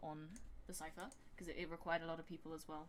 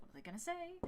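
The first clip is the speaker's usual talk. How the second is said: anxious; 11 semitones higher, faster than usual. Retold or imitated. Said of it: "I'm just like".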